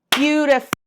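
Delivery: Beautiful said in clapped syllables, BEAU-ti-ful. Shown as a demonstration. Teacher to class, claps out Beautiful's syllables. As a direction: clap out Beautiful beat by beat. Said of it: "Two, right?".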